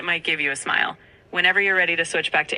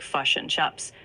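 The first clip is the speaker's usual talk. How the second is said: New Zealand "fush and chups", i turned to u; "fush and chups" in a New Zealand accent; slower than usual. Shown as a demonstration. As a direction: say fish and chips as "fush and chups". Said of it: "New Zealand accent often has".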